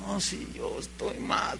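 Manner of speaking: susurrado, lento y mucho más suave; confiésalo en un susurro avergonzado; susurro arrepentido. Acted. El arrepentido confiesa en voz baja. (el pecador arrepentido confiesa a Dios en un susurro)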